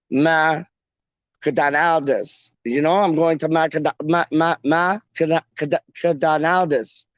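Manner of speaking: McDonald's broken up as Ma-cadonaldas; posh pronunciation. Shown as a demonstration. Host works out posh McDonald's as Ma-cadonaldas. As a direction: feel out Ma-cadonaldas syllable by syllable. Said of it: "That sounds like posh".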